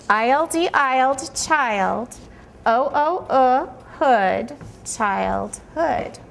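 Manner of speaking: put-on "I L D, isled, child" said slowly in separate parts; sounding out syllables. Shown as a demonstration. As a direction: spell then blend each chunk, "O O, uh, hood". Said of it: "I'm going to say".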